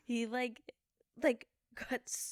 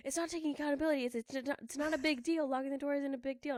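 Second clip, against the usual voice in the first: higher mock-defensive boyfriend voice; imitating defensive boyfriend; 6 semitones higher, faster than usual. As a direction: brush off the blame, lightly mocked. Voicing boyfriend in argument.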